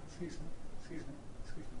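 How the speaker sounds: high, lightly acted lost tourist; lost stranger calling out. Book distributor playing a lost stranger to stop a passer-by. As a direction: call after them like a stranger lost in town. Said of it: "like, uh".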